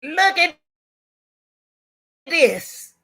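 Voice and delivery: a hint of an eager child; imitating her daughter. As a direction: daughter excitedly showing her mother a video, high voice. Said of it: "she came upstairs and said".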